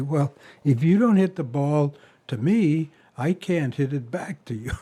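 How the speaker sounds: mock-dispassionate, matter-of-fact reply. Father answering George on the tennis court, dispassionate. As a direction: imitate an unruffled father reasoning calmly.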